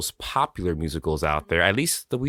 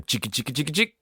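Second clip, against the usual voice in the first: vocal intro beat; 6 semitones higher, 3 dB quieter, faster than usual. Pretend. Vocal intro beat before singing again.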